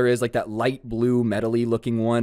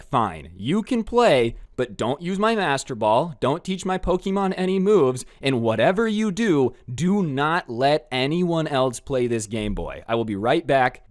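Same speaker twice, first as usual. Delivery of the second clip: stern warning; 4 semitones higher than usual. Retold or imitated. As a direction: lay down the law to a friend, word by word. Stern warning before leaving Game Boy.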